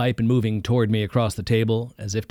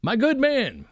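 high, hearty call; shouting to waiter; slower than usual. A narrator's reading. Preacher shouting to the waiter for another round, hearty call. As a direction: hail the waiter across the room. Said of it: "he shouted to the waiter".

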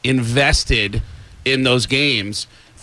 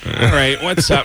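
reluctant greeting. Retold or imitated. Quarterback to an overeager fan, reluctant greeting. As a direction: give in and greet without enthusiasm. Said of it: "he very reluctantly went".

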